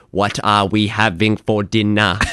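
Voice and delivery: slow, even robotic monotone. Retold or imitated. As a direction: talk to the phone like a robot. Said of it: "you speak like a robot".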